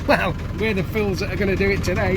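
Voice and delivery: laughing over roaring wind; blustery outdoor recording; wind on mic. Real, not acted. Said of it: "Sorry about the wind noise".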